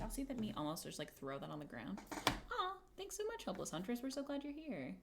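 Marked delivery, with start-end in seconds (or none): 2.1-3.4 aw. Real, not acted. Streamer reacts to a viewer.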